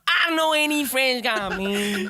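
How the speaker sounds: high, loud Black country accent impression. Shown as a demonstration. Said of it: "kind of a black country accent".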